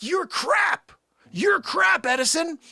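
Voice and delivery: high, loud jeering at Edison; mock insult. Tesla jeering at Edison, loud mock shout. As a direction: shout him down in jest. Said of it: "I'm like".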